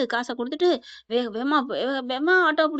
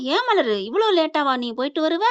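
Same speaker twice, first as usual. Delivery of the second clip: higher, mildly booming reproach; drawn-out scolding; 4 semitones higher, 4 dB louder than usual. Acted. Mother-in-law scolding Malar for coming late, drawn-out scolding. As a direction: scold her with stretched-out words. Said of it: "நீட்டி முழங்க".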